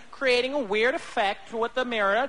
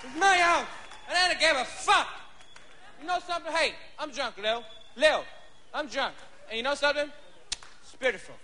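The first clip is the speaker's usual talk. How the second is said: put-on drunk father; 4 semitones higher than usual. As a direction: slur and holler at Lil from the couch. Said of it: "My pop's home like this, drunk".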